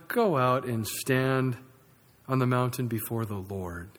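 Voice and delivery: lightly voiced God, firm and steady; God answering. Acts God answering the whining Elijah.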